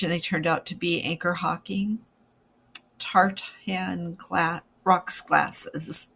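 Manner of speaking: stumbling over words with a stiff jaw; jaw trouble. Real, not acted. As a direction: struggle through it with a sore jaw. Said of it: "Try to say that with a weirded out jaw".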